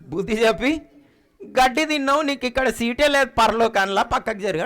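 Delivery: retelling God's rebuke with a laugh; God's words laughing. Retold or imitated. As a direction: chuckle through the quoted rebuke. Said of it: "ఏమంటాడు".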